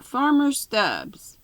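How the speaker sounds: high, drawn-out villainous address; melodrama villain. A narrator's reading. Villain comes directly to the point with Farmer Stubbs, pompous drawl. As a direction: hail him with hammed-up pomp. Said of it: "the villain spoke".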